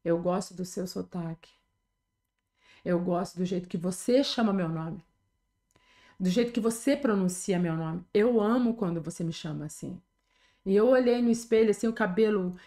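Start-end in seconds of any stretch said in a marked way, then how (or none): 0.0-10.0 low, unhurried, tender retold voice; gentle reassurance. Jesus reassures her about her accent, gently.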